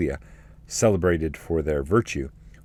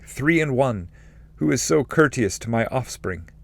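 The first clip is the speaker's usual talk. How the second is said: higher voice of a rejoicing ancestor; joyful spirit's blessing; 7 semitones higher than usual. Acted. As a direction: keep the raised, glad praise going.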